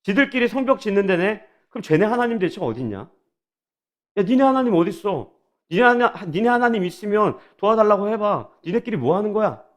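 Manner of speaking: acted-out sneering taunt at the builders; mocking taunt. Enemies jeer at the Jews rebuilding the wall, mocking. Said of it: "그렇게 비아냥거리는 거예요".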